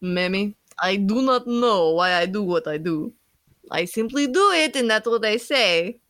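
put-on amateur accent, building in pitch; attempted Irish accent. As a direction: press on with a hammed-up Irish accent. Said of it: "then I'll keep doing it".

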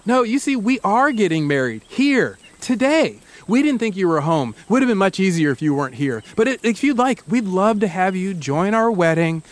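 eerily calm and unhurried; lightly voiced, too-calm groom; almost too calm. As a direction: reassure him like nothing is wrong. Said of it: "His voice is calm, almost too calm".

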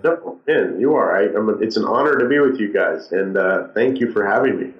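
dull, muffled voice, as if through cloth. Real, not acted. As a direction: speak with a muffled, covered voice. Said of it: "I'm sorry I have a muffled voice".

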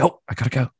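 imitating mom. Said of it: "be like".

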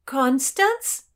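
high, loud, rising yell; yelled question. A narrator's reading. Friend on deck questions who is below, yelling. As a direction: yell it down in disbelief. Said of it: "yelled Doradai".

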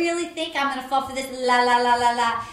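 weak attempt at Crystal's foreign accent, hushed; a clumsy try at her accent. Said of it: "I can't do her accent".

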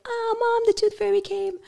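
put-on high, thrilled child's squeal; imitating a delighted daughter; excited little girl. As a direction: bubbly kid who just found money under her pillow. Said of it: "she found it and was like".

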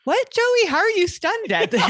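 half-laughing cry of disbelief; incredulous audience. Retold or imitated. Viewer yelling at the TV in disbelief. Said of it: "as an audience member, you're like".

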